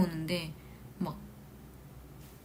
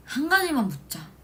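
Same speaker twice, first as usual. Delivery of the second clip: ordinary talk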